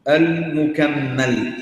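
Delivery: المكمل drawn out slowly and firmly; stretched term. Shown as a demonstration. Teacher drawing out المكمل for students to repeat. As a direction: spell out المكمل slowly, syllable by syllable. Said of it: "teacher stretches key term".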